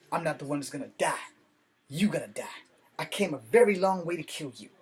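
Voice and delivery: street-style kung fu line, too ghetto to pass as Chinese; ghetto delivery. Shown as a demonstration. Retelling a dubbed kung fu duel, in a ghetto voice. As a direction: say it like a street tough, not Chinese. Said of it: "That was way too ghetto".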